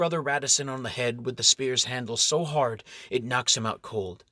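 ordinary delivery, nothing marked

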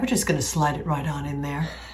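very soft, hushed voice, barely above a hush. Imagining how Bob Ross talks during sex, in a Bob Ross voice. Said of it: "With this voice".

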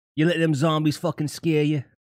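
horrible, clumsy put-on New York accent. A streamer reads a scripted alert line aloud, bad new york accent. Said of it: "My New York accent is horrible".

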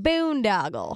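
over-the-top fake Southern accent on boondoggle. Laughing at a funny word, the speaker says it in a really fucked-up southern accent. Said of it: "say it in a really fucked up southern accent".

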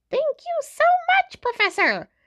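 very high, squeaky little voice swooping up and down. Professor Flitwick speaks to Umbridge outside his classroom, squeaky little voice. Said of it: "said Professor Flitwick in his squeaky little voice".

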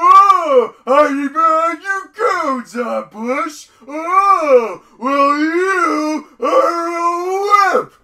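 very loud, high, slow yelling, stretching the oh. Quoting a favorite scene where the character yells at the president: imitating Homer Simpson yelling. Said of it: "when he's yelling at President Bush".

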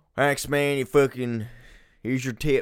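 put-on Pennsylvania accent. Retelling a man handing over a tip, in a Pennsylvania accent. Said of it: "That's a very good Pennsylvania accent".

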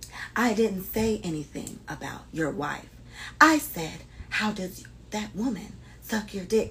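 whispered, hushed, breathy, barely audible. Speaker imitating how a woman talked in her quiet video, whispering. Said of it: "As quiet as I'm whispering".

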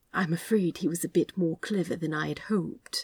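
soft-spoken, quiet voice. Narrator reads one character's reply to the other, said softly. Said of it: "Aziraphale said softly".

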